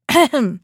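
a hammed-up throat clearing ahem; wolf fakes a cough to sound like granny. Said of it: "pretending to cough".

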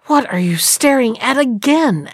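mildly impatient wife, lightly voiced; understated impatience. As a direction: hurry the dawdling husband along. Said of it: "asked his wife impatiently".

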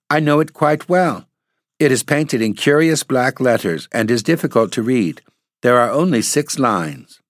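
put-on little girl. A narrator's reading. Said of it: "cried the little girl, looking up".

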